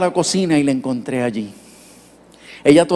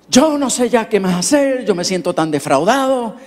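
complaining doctor; 5 semitones higher than usual. Retold or imitated.

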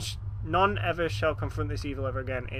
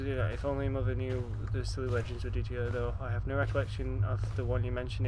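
reading a letter; 2 semitones lower than usual. Acted. Reads letter aloud.

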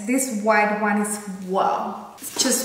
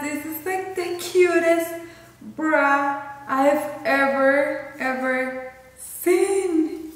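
gushing; 4 semitones higher, slower than usual. Real, not acted. Gushing over lingerie in haul.

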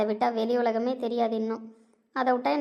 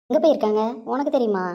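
eager question; 5 dB louder than usual. Acted. Eagerly asking where everyone went.

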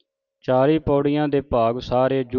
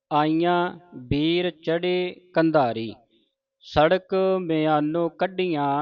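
martial recitation; 2 semitones higher than usual. Shown as a demonstration. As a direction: chant the war verse with force. Stirring recitation.

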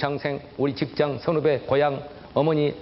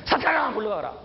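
mock exorcism; 6 semitones higher than usual. Casting out the visitor as Satan.

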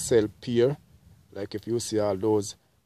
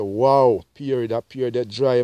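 excited exclamation; 8 dB louder than usual. Retold or imitated. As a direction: marvel at a good avocado. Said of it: "them say".

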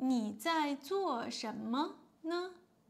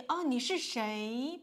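a blunt, demanding 哦，你是谁 said a bit louder; too blunt; 5 dB louder than usual. Shown as a demonstration. Teacher showing learners the blunt way to ask who is calling. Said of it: "but it sounds very strong".

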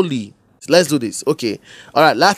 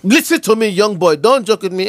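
slightly raised, stern telling-off; mild scolding shout; 3 semitones higher than usual. Acted. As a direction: scold the boy with mild force. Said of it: "you are shouting on me".

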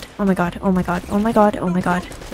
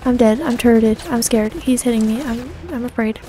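lightly panicked repetitive babble; a touch of fear, repeated in a singsong run; mock scared; 3 semitones higher than usual. Player babbling as the enemy keeps hitting, mock scared. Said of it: "I'm so scared".

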